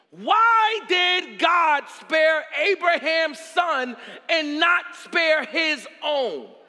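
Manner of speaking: slow, high, loud cry; drawn-out shouted question; impassioned preaching. Real, not acted. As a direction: hurl the question out, stretching each word.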